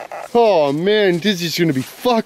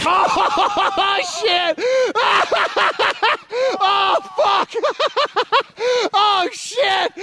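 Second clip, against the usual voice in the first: excited; 11 semitones higher, much slower than usual. Real, not acted. Cheering the bike's wipeout.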